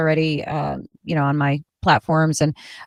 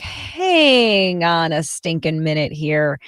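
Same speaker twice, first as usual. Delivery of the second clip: slow suspicious; much slower than usual. Retold or imitated. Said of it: "and I'm like".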